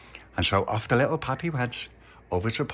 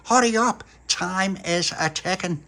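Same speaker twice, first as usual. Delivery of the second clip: put-on higher, hurrying kid; impatient boy; 8 semitones higher, 3 dB louder, slower than usual. Little pappy rushing Pauline to leave, mildly impatient. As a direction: chivvy her along. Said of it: "he said".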